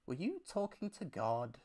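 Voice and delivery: a hushed, close retelling of the guru's questions; mildly hushed, intimate questioning; really quiet. Retold or imitated. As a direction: lean in and ask it softly. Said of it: "he gets really quiet".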